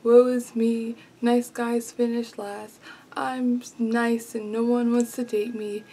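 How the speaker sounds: melodramatic self-pity voice; woe-is-me moaning; whiny mock lament. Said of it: "his comment was one of those, like".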